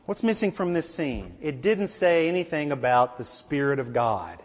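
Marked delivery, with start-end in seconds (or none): 0.1-1.3 "What's missing from this scene?" repeated much softer, drawing them in; a softer, pointed echo of the question; hushed repeat. Shown as a demonstration. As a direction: drop to a near-hush on "missing". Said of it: "But you know what's missing from this scene".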